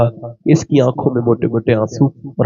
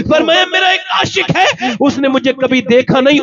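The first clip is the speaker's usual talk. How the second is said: fiery preaching; 12 semitones higher than usual. Acted. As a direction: preach it out at the top of your voice. Preaching at full force. (پرجوش خطابت، اونچی بلند آواز میں)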